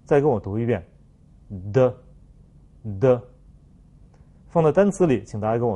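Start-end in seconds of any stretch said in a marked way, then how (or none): 1.7-3.2 的 as French "de", vocal cords buzzing; tongue tip on upper teeth, then release a voiced 的; short 的 with a fully voiced French d; voiced consonant. Shown as a demonstration. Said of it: "同样要注意声带震动的问题".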